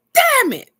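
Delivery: very high, loud, whiny wail; hammed-up sobbing protest; mock whiny cry. Answering her comforting friend, mock whiny cry. Acting her own reply to Razia.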